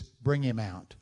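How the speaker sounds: lightly stern command; understated authoritative order; mild voice of authority. Acted. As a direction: order it like an officer. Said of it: "a voice of authority says".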